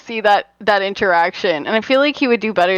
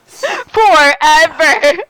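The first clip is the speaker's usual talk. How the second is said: FOREVER stretched very long, louder and higher; slow, emphatic FOREVER with raised pitch; drawn-out emphasis; 4 semitones higher, 5 dB louder, much slower than usual. Real, not acted. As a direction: draw out both halves of FOREVER. Repeats the word for emphasis.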